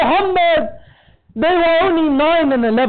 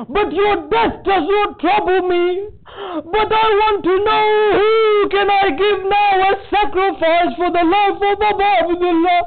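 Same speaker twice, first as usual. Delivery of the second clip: tearful lament; 6 semitones higher than usual. Acted. Zainab mourning her sons.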